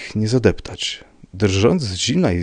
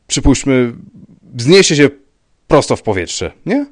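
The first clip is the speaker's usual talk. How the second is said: loud, raised, insistent argument; exclaiming; 5 semitones higher, 8 dB louder than usual. A narrator's reading. Rybka arguing a man vanished into air, exclaiming. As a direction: drive the point home excitedly. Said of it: "zawołał pan Rybka".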